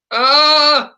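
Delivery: high, loud "Ah" that jumps up; yelled flip sound. Shown as a demonstration. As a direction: belt the "Ah" hard into the flip. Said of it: "what's the sound as they approach the flip?".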